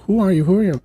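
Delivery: high, agitated repeated question; alarmed demand. Retold or imitated. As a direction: press the stranger for an answer. Jean questions the mysterious voice.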